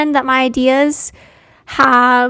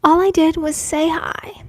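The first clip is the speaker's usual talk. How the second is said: hushed whisper to herself; whispered aside. Real, not acted. Stung by a viewer's remark, whispered aside. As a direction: breathe "All I did was say hi" under your breath.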